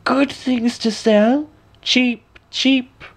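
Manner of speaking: put-on high, slow old peddler woman calling; high sly hag hawking wares; peddler's cry. A narrator's reading. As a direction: sing out wares like a crooked old hawker. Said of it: "and cried".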